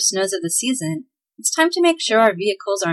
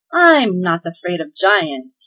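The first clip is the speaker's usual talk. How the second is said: slow, louder boast; cocky elf, mock bravado; bragging; 4 dB louder, slower than usual. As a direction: puff up and brag. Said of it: "he bragged".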